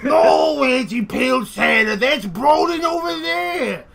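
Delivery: high, loud, impatient shout; exasperated correction. Acted. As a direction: correct her, loudly exasperated. Jimmy corrects his auntie.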